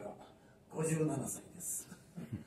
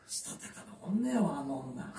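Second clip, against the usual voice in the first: whispered aside; 4 semitones lower, slower than usual. Shown as a demonstration.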